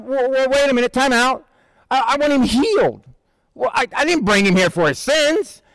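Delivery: lightly acted startled objection; mock protest. Friends protest Jesus forgiving sins.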